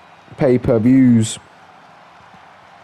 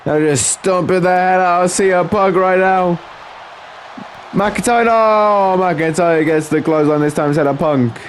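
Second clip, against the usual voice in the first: lively wrestling commentary, a little raised in pitch; live play-by-play; 3 semitones higher than usual. Acted. Commentator following Punk and McIntyre, lively play-by-play. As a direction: call the wrestling moves as they land.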